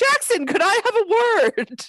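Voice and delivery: very high, sort of panicked voice. Describing a funny moment at the end of a scene, imitating Kevin's panicked voice. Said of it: "His voice is like a full decibel higher and he's like sort of panicked".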